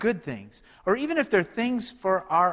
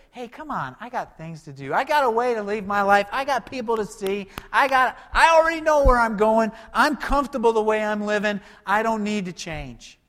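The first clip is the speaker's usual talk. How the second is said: mock indignant, rising higher and louder; a stubborn listener digging in; defiant protest; 7 semitones higher, 6 dB louder than usual. The pastor voicing a stubborn listener who refuses to change, defiantly louder. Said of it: "we might say".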